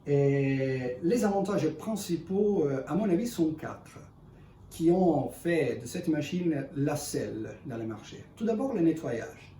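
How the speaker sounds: non-native French speaker; French with a foreign accent. Real, not acted. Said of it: "excusez-moi mon français".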